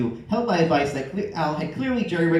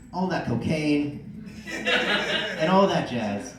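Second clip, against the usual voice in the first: laughing; much slower than usual. Real, not acted. Reader laughing through the list.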